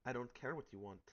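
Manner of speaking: angry. Acted. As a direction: snap back hard. Heated quarrel between companions.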